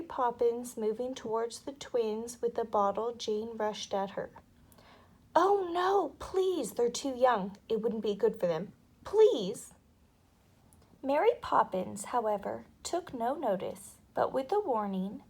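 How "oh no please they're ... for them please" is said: put-on pleading girl. A narrator's reading. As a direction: beg anxiously like a big sister. Jane begging for twins.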